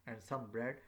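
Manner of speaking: "bread" falling to close the list; falling intonation. Shown as a demonstration. Teacher showing how to end a list, falling intonation. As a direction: finish the list with the voice dropping on "bread". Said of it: "Now the voice is, uh, down".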